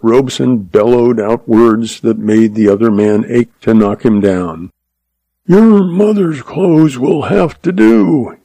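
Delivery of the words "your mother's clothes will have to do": raised, slow bellow, narrated; roar. A narrator's reading. Stepfather refuses his stepdaughter money for clothes, roaring. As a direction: bellow it slowly, pitch pushed up. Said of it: "he roared".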